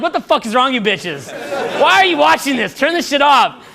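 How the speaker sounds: imitated outraged disbelief; mock exasperated guys. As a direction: demand it like a fed-up boyfriend. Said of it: "you guys are like".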